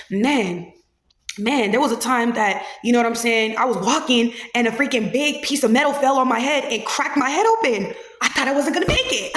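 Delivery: cheerful dark-humor delivery, amused by the end; gruesome story, smiling. Shown as a demonstration. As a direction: tell a grim tale with an audible smile, breaking into a laugh at the end. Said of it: "with a smile on our face".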